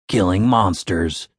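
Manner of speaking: low, slow deadpan answer; Dave's deadpan. Acted. Dave finishing Tim's point, low deadpan. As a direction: drop it flat and slow.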